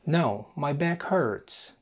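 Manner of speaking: very slow, careful dialogue line; slow model answer. Shown as a demonstration. Teacher modelling the answer slowly. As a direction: stretch out each word for learners.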